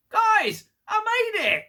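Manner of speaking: very high, loud squealed announcement; mock triumphant shout. Tucker announcing a return to the others, mock triumphant shout. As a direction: call it out in hammed-up triumph.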